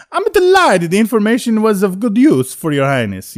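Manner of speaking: put-on loud, high Sopranos-style mobster accent; mafia accent. Auditioner reading for Prince Shizor in a mafia accent. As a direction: lay on a New Jersey mob boss accent. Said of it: "soprano type mafia accent".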